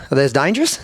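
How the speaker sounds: lightly imitated Aussie question; Australian accent. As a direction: imitate an Australian asking innocently. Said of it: "here comes the Australian guy".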